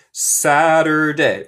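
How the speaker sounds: slow American Saturday, like SA-der-day; own US accent. Shown as a demonstration. Teacher tells students how they say it, American accent. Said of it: "Yo digo Saturday".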